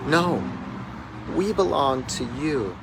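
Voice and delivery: retold shout back, not at full volume. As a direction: answer the caller with a firm, moderate shout. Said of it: "I shouted back at her".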